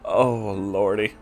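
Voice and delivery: plain reading voice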